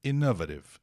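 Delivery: innovative said "ino-va-tiv", spelling-style; wrong pronunciation. Shown as a demonstration. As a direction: read innovative as spelled, full vowels. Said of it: "Ou então".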